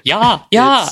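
mock Finnish listener. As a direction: ham up a Finnish listener agreeing. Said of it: "our one Finnish listener to be like".

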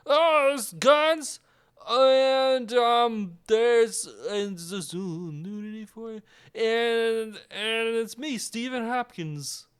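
high, slow, silly boast; mock excited director; goofy director voice. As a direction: play a cheerful hack showing off. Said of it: "They're like".

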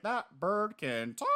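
high, slow, amazed outburst; losing his mind. Retold or imitated. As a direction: lose it over the talking bird. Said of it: "he's just losing his goddamn mind".

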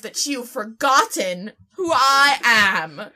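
lightly posh affronted British lady; a hint of hammed-up British indignation; fancy British. Dinosaur insulted at being forgotten, lightly British and affronted. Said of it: "talk like a fancy British dinosaur".

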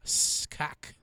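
slow, garbled backwards words; backwards speech. Shown as a demonstration. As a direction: sound it out in reverse. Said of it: "trying to say college hacks backwards".

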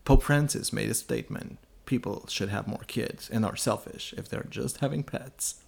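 lightly imitated solemn news voice; very serious newsreader. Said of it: "with this very serious voice".

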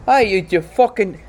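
lightly hammed-up angry Australian; botched Australian accent. Prime minister threatening Biden, mock-angry bad Australian accent. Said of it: "I think we're both doing, like, some sort of Irish".

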